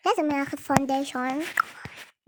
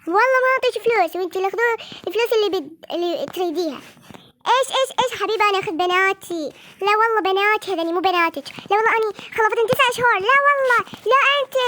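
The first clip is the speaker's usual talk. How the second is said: heated shouting; 5 semitones higher than usual. Acted. Doll parents scream at each other over the girls. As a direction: scream the claim to the daughters.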